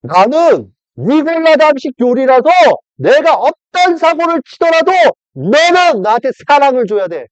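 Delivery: high nagging Satan voice; whiny Satan. Acted. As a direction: wheedle like a spoiled devil. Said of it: "사탄은 뭐라 그럴 것 같아요".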